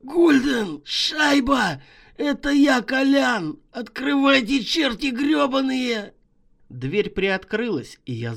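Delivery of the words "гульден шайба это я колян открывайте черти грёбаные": high, loud, hoarse calls at the door; hoarse desperate yell. Acted. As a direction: croak and shout to be let in. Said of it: "я прохрипел".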